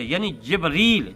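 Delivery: जिब्रील said with a short i, not जिब्राईल; जिब्रील, clipped form without the aa; short i pronunciation. Shown as a demonstration. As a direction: say जिब्रील as jib-reel, no long aa. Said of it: "जिब्राईल नहीं पढ़ते थे".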